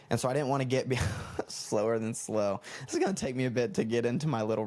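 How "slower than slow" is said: slow, stretched words after a laugh; exaggeratedly slow emphasis; drawn-out slowness. Shown as a demonstration. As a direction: drag it out for effect. Repeats the drawn-out slow phrase.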